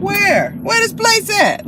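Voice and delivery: high, puzzled where-is-it; searching aloud, baffled; confused. Real, not acted. Driver lost in an alley, confused and high.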